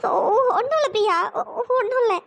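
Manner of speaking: halting, stammered through tears; tearful denial. Acted. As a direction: insist nothing is wrong while crying. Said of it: "அமைதியா உன் பாட்டுக்கு அழுதுட்டே இருக்க".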